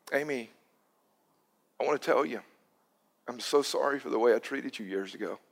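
a hushed, sincere plea for forgiveness; tender apology. Retold or imitated. Tearful apology retold to Amy.

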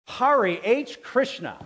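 loud, high, slow mock curse; pretend cursing. Someone squishing a thumb in pliers, loud mock cursing. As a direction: drag it out loud like a thumb just got hammered. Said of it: "to express filth or hatred".

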